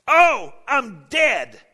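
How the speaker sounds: high, loud and very slow; anguished scream. Retold or imitated. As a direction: wail it in terror. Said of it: "That's all he can scream".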